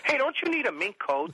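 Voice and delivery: hammed-up eager suggestion; desperate sales pitch. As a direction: blurt it out to change the subject. Acting out desperate change of subject.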